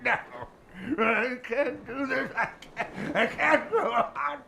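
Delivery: high, laughing panic; nervous laughter. Acted. Boatman losing his nerve, laughing fearfully. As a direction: laugh in terror through the words.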